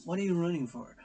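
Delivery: loud, high call after someone running off; hammed-up puzzled yell; calling after him. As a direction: shout after the fleeing player. Voicing herself calling after player.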